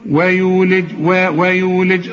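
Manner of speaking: ويولج slowly with thin "we"; light w. Shown as a demonstration. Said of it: "الواو مرققة". (ترقيق الواو في ويولج)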